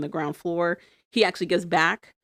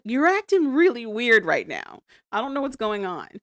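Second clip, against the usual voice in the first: freaked out; 5 semitones higher, 3 dB louder than usual. Retold or imitated. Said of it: "'cause she's freaked out".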